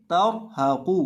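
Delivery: तर हा कू with a full, thick ra closing तर; heavy ra. Shown as a demonstration. Teacher answering "what will we read", heavy ra in तर हा कू. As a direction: round out the ra in तर हा कू. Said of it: "रॉ को पुर करेंगे".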